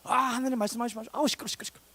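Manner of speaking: high, brushing-off whine; mock irritated refusal. Stubborn people plug their ears to God, high irritated brush-off. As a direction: shut God out with acted annoyance. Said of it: "백성들은 귀를 탁 막고".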